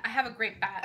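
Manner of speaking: ordinary delivery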